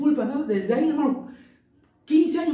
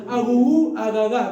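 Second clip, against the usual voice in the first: put-on baby talk; 5 dB louder, slower than usual. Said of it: "hablaba como".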